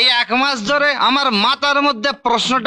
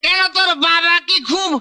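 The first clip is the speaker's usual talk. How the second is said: put-on belligerent drunk; 6 semitones higher, faster than usual. Drunk man shouting back.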